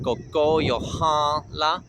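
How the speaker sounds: slow koko yohan la, the N of yohan through the nose; nasal N. Shown as a demonstration. Teacher showing the first rooster word, yohan with nasal N. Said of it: "is a nasal N".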